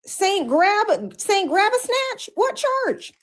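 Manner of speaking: high, scoffing disbelief; incredulous mockery. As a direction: scoff it like a ridiculous question. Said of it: "And I was like".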